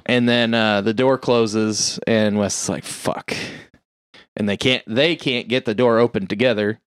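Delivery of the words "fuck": breathy whispered swear under the breath; whispered curse. Retold or imitated. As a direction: whisper it like you're doomed. Wes swears as door closes.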